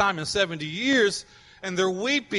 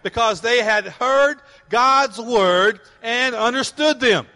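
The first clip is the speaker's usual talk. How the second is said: congregation read-along; 4 semitones higher, 3 dB louder, slower than usual. Real, not acted. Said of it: "Let's say again".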